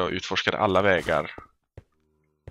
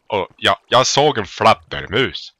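put-on Norrland accent; 7 dB louder than usual. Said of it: "riktigt norrländsk".

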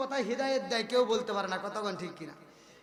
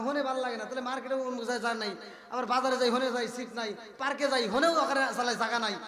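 ordinary delivery

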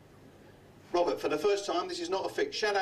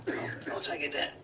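muttered aside; 3 semitones lower, 3 dB quieter than usual. Real, not acted. Muttered aside after fumbled trick.

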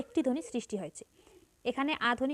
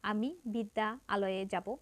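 slow, with বিদ্যালয়ে drawn out in parts; the awkward, complicated way; slow, split apart; 2 semitones lower, slower than usual. Shown as a demonstration. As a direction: say বিদ্যালয়ে slowly as if বিদ্যা আলয়ে. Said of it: "এটা একটু জটিল".

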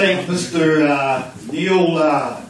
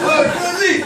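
much higher mock call of Gilly; imitating his mate; 4 dB louder than usual. Mimicking his mate for the crowd, a high mock call. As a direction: squeal "Oh, Gilly!" like your mate does. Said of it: "He talks like this".

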